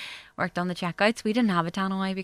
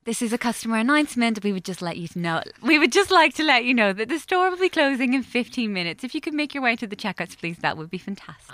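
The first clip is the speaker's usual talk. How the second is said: a touch of a tannoy announcer; polite store announcement over speaker; supermarket announcement; 3 semitones higher, 3 dB louder than usual. Retold or imitated. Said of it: "I was like".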